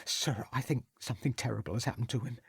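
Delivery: tearful, building. A narrator's reading. Cook fearing for the young master, rising tearful and slowing. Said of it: "giving a loud sob".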